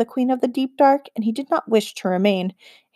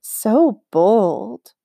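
amused; 3 dB louder than usual. A narrator's reading. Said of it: "equal parts amused and impressed".

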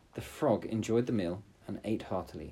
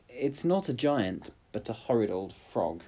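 cartoon princess. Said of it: "said the princess".

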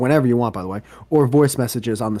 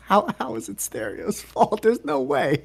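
much higher, disbelieving; incredulous; 10 semitones higher than usual. Real, not acted. Host questioning cohost's phone problem, incredulous and much higher. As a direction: refuse to believe it's the app's fault.

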